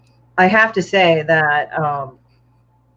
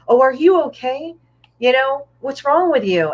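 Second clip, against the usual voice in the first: mock concern; 7 semitones higher than usual. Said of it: "I said".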